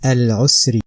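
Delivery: "al-usri" with a clear Arabic "r"; Quranic Arabic. Shown as a demonstration. Teacher showing pupils how the word sounds in Arabic. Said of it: "I say".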